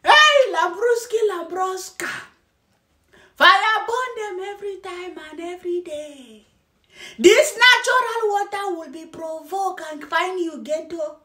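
lightly hammed-up robotic reporter; mocking newscaster imitation. Mocking a man cursing those who harm nature, mock newscaster. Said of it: "the way the guy is talking in".

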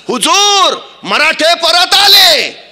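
high, drawn-out yell from the rear; spy crying out urgent news to his lord; shouted alarm. Acted. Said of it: "मागचा हेर परत ओरडला". (हेराची लांबलचक आरोळी)

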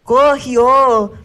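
high, loud cutesy Japanese; sweet anime schoolgirl lines; anime girl voice. Pretend. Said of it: "anime girl voice".

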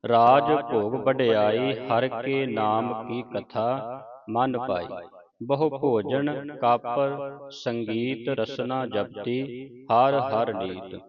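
measured Gurbani recitation with drawn-out vowels; scripture recitation. Acted. Teacher reciting Gurbani for students to follow, measured recitation. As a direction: recite each phrase clearly, pausing between phrases.

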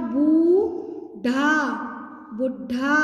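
syllable by syllable, then blended; sounding out words. Shown as a demonstration. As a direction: sound out each syllable slowly. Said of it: "अब ध्यान से देखेंगे".

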